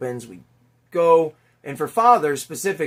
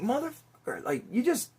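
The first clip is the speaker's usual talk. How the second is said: retold outburst; 10 semitones higher, 6 dB quieter than usual. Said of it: "And I'm like".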